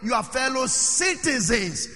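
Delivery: slow, deliberate weight on "citizens"; "citizens" spelled out slowly and firmly; emphasis on "citizens". Shown as a demonstration. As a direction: stretch out "citizens" to press the point. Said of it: "I keep on emphasizing this".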